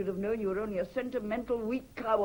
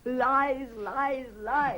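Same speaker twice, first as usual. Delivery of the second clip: bitter repeated lies; 4 semitones higher, much slower than usual. Acted. Wife spits repeated word.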